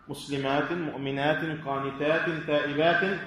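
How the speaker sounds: quick run of "-atin" endings on مسلمات، مؤمنات، قانتات، تائبات; kasr tanween sounded. Shown as a demonstration. Teacher reviewing the examples, tanween "in" sounded on مسلمات and the rest. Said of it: "تنوين كسر، يثبت في حال الوصل".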